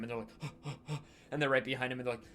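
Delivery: ordinary talk, nothing marked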